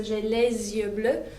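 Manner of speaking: "J'ai les yeux bleus" slowly, Z joining "les" and "yeux"; French liaison. Shown as a demonstration. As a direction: link "les yeux" into "lez-yeux", unhurried. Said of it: "like, Z sound in the middle".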